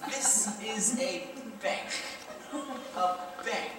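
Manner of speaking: spelling it out slowly and patiently; patronizing slow explanation to a client; slow condescending. Acted. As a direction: talk down to her like a child. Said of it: "listen to me carefully".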